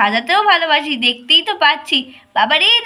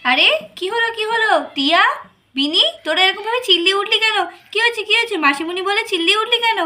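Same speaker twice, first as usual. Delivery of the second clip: higher pitched, startled questions; aunt rushing in, worried by the kids' yelling; alarmed surprise; 5 semitones higher than usual. Acted. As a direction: ask what happened in a sudden fluster.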